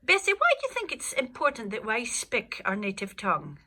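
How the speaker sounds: ordinary talk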